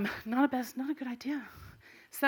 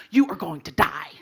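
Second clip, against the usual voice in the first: warning yell; 3 semitones lower, 5 dB louder than usual. Retold or imitated. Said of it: "I was like".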